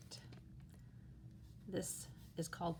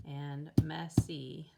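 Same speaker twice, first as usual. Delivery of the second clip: "messy" loud, slow, two beats hit; teacher claps out "messy" in two beats; clapping out syllables; 8 dB louder, slower than usual. Shown as a demonstration. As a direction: clap out "mes-sy" slowly and loudly. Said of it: "let's tap it out or clap it out".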